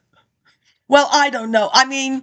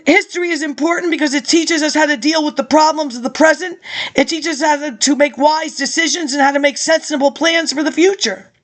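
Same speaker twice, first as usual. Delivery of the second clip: reading out a speech, steady and measured; formal speech read. Acted. Reading an old lecture to listeners, formal speech. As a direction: deliver it like a campaign address.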